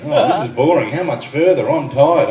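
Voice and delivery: lightly mimicked moaning wife; mock complaining. Husband imitating wife on the way to Tasmania, mock complaining. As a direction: grumble like a bored passenger, slightly put on. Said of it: "she's still complaining".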